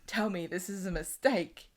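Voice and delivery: slow, softened mock-dramatic plea; hushed soap-style disbelief; acted plea. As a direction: beg him, drawing the words out. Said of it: "and she says".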